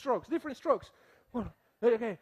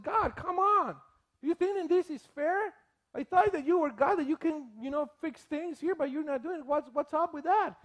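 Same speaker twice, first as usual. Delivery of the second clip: raised, exasperated plea to God; complaining prophet; 6 semitones higher than usual. Retold or imitated. Habakkuk to God, exasperated raised complaint. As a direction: voice Habakkuk's frustrated complaint, pitched up.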